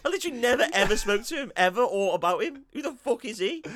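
indignant rant played for laughs; mock indignation. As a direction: protest in hammed-up disbelief. Acting out slapped April's indignation.

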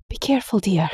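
anxious mum saying goodbye; worried mother. Acted. Mother voiced, higher.

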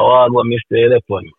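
light Jamaican patois; Jamaican accent. Shown as a demonstration. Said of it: "say something with your Jamaican accent".

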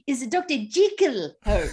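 imitating a phony British movie accent, JEE-kul. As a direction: put on a phony British film voice. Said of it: "this phony British accent when they're doing it".

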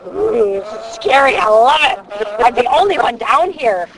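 acted-out spooky delight, swooping pitch; thrilled fright. Retelling being alone by the lake, playfully thrilled fright. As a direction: relish the scare, lightly hammed-up.

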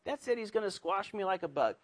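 high, soft, half-hearted alarm; mild mock dread. Believer afraid of the Lord, mild mock dread. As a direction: start high in mock despair, then ease down. Voices believer fearing the Lord's punishment.

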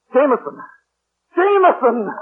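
high, loud call for the butler; urgent shout. Acted. Master calling his butler to leave at once, urgent shout.

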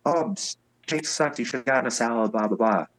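high-pitched heckle, no real volume; mock yell. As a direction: imitate someone yelling from across the room, held back. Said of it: "yells out".

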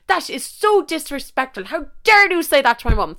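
put-on high, outraged country-girl accent; high-pitched indignant country accent; mock country accent. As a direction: scold in a hammed-up country accent. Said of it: "We're giving her one for the story".

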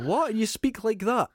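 high, disbelieving question; surprised. Retold or imitated. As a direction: retell the shocked reaction. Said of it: "And it's like".

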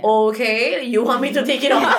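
laughing, sarcastic okay then; mock her critic with a laugh; sarcastic retort. To an online critic, a laughing sarcastic reply. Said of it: "you expect me to give you a".

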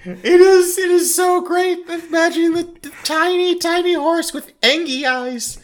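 high-pitched gushing through laughter; real laughing delight. Real, not acted. Co-host picturing the tiny angry horse, laughing helplessly. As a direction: squeal it while cracking up.

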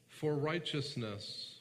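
"For righteousness" repeated slowly, leaning on For; stress on For righteousness. Shown as a demonstration. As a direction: slowly weigh each word of "For righteousness".

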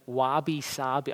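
slow Australian-accented "Wabi-sabi". Shown as a demonstration. Preacher shows the congregation a Japanese term, Australian accent. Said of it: "Said with Australian accent".

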